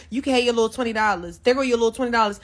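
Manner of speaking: mocking the stylist. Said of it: "she was so confrontational".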